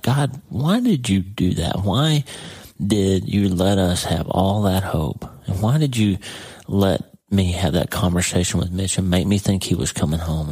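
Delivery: reliving an anguished, mad question; mad plea to God. Retold or imitated. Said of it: "I'm mad. I'm just like".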